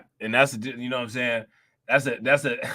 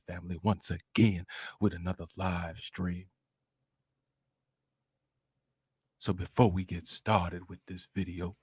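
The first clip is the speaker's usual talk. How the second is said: low, soft put-on YouTuber intro; a deep hushed fake live-stream host; mock streamer voice; 10 semitones lower, 8 dB quieter than usual.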